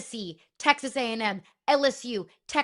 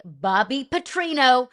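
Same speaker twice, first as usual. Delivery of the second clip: a slow, mock ring-announcer build on the name; announcer intro; 5 dB louder, slower than usual. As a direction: lightly hype the name like a boxing intro. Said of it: "the one, the only".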